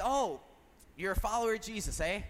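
lightly Canadian, with a tagged-on "eh"; accidental Canadian accent. Retold or imitated. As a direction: slip into a mild Canadian accent. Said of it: "I don't know why he's Canadian".

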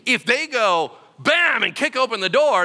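shouted high and loud over the action; loud raid shout. Acted. Preacher acting out soldiers raiding a room, shouting. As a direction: bark it like storming a room.

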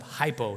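"Hypo" ending in a clear o; careful pronunciation. Shown as a demonstration. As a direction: say "Hypo" with an o, never an er. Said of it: "not hyper".

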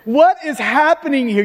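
acted incredulous jab; sarcastic, exasperated questioning. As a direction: needle them with mock disbelief. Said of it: "You see this sarcastic bent".

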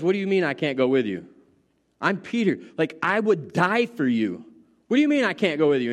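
rushed, protesting disbelief; indignant Peter. Acted. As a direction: hurry the words, a hurt and eager disciple. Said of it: "And Peter says".

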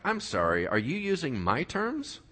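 mock outrage, building to a claim; hammed-up offended devil; indignant Satan. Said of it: "And Satan's like".

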